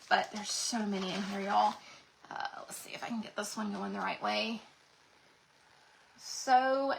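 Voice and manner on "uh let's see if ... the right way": whispered aside. Real, not acted. Muttering to herself while adjusting.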